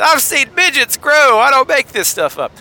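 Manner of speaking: a hint of a televangelist; Robert Tilton. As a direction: quote him like a TV preacher. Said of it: "Robert Tilton said".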